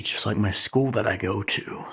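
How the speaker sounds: quick hushed aside; soft whisper. Real, not acted. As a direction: murmur it under your breath. Whispered aside under the lights.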